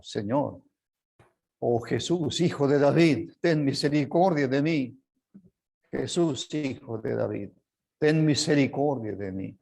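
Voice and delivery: desperate cry. Retold or imitated. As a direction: voice a blind man crying out for mercy. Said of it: "Un ciego grita, desesperado". (clamor desesperado del ciego, algo más fuerte)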